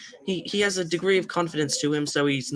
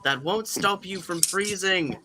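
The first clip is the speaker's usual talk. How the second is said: put-on old wise engine voice; 5 semitones higher than usual. Voicing a character.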